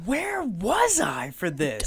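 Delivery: slow unvoiced whisper. Real, not acted. Friend asking where he was during the ambulance, whisper. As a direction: whisper it in disbelief.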